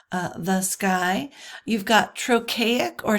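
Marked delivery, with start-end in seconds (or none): 0.4-1.3 "the sky" slow, with "the" light and "sky" stressed; iambic stress. Shown as a demonstration. Teacher gives second iamb example, "the sky" stressed on "sky". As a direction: lean on "sky" in "the sky", drawn out. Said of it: "that is unstressed stressed".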